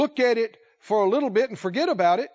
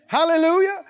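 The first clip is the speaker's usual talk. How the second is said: high, loud burst of hallelujah; praise shout; 6 semitones higher, 4 dB louder than usual. Real, not acted. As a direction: lift the room with praise. Preacher exclaims praise mid-sermon.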